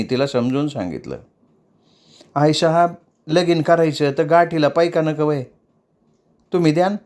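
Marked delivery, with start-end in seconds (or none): 2.3-7.0 put-on higher, pleading young dancer; mild tearful plea; tearful protest. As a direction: plead your love, hurt. Hausi retorts.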